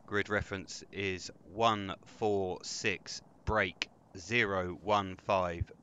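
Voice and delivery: slow, measured grid reference; calm radio call for fire. Acted. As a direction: read the numbers out slowly and calmly. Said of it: "Damn, you're professional".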